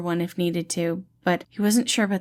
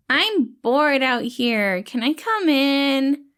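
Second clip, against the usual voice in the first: whiny bored call; 7 semitones higher, 4 dB louder, much slower than usual. Acted. Remus calling from outside.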